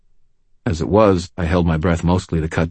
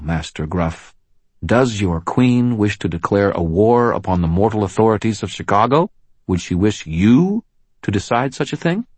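raised, commanding lawwoman voice; firm policewoman; 5 semitones higher, 4 dB louder than usual. Acted. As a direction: stand your ground, loud and firm. Murphy confronts the Gruff.

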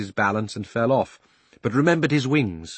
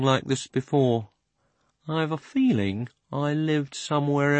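slow, dreamy horse voice; 4 semitones higher than usual. Acted. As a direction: ponder it slowly like half-remembering. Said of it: "said Strawberry very slowly".

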